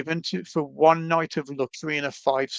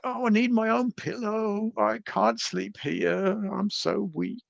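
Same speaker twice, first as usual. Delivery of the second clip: higher, slow whiny mock-pampered voice; mock princess; 6 semitones higher, slower than usual. Mocking her pampered self about pillows, mock whine. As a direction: play up being a spoiled princess, lightly. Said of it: "I think I'm Princess and the Pea".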